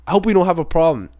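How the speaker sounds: non-confrontational. Retold or imitated. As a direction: friendly, open retold peace offer. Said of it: "he didn't say it in a tone like".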